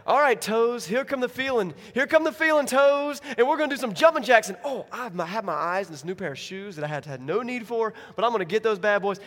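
loud, high, eager pep talk to toes; excited. Pretend. Paralyzed man cheering his toes on, loud and excited. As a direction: hype yourself up. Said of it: "he's like".

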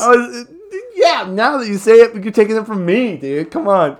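high, loud fake sob; mock crying. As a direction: whine like a wronged kid. Mock upset at stolen bit.

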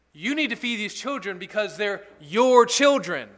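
a preacher's emphatic charge to the father; firm rebuke. Pretend. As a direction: tell him straight, with weight. Confronting the derelict father firmly.

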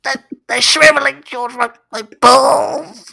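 whiny pleading weirdo; a creep whining about his balls; creepy stranger voice. Acted. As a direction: beg like a creepy neighbour. Improvised creep voice again.

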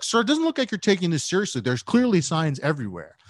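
a mock-stern official scolding fast; stern park ranger. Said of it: "he was like".

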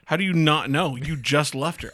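put-on incredulous at the kid; dad exasperated at his son.

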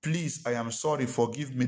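mildly pleading, in three separate phrases; pleading apology. Shown as a demonstration. Preacher demonstrates the fullest apology, gently pleading. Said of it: "They are three different things".

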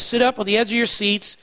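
firm call to attention, easing off at the end; mildly commanding teacher; authoritative. Acted. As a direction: claim the listeners' attention. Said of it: "this is very authoritative".

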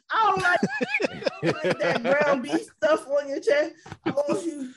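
laughing while complaining. Real, not acted. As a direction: laugh through the words. Laughing complaint about chest hair.

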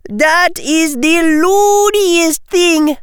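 high, drawn-out exclamation; incredulous yell. Acted. Parvati scorning Tracy's claim, incredulous yell. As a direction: cry out in disbelief, slow and high. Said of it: "yelled Parvati".

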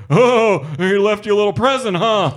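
high, fast, jokey dog park pal; chipper guy voice. Retold or imitated. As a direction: play the upbeat Dockers guy. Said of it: "he's like".

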